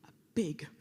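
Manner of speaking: whispered thanks. Real, not acted. Closing thanks to audience.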